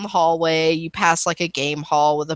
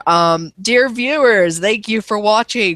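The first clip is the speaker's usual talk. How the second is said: cheery viewer address; 3 semitones higher, 3 dB louder than usual. Real, not acted. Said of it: "out of character".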